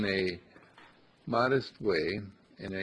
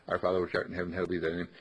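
rushed, mechanical recitation; rattled off prayer; 5 semitones lower, 3 dB quieter, much faster than usual. Shown as a demonstration. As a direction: reel it off without meaning. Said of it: "You rattle 'em off".

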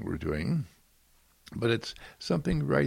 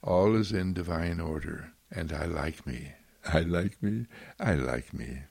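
quiet affirmation; 6 semitones lower than usual. Pretend. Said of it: "when we say to ourselves".

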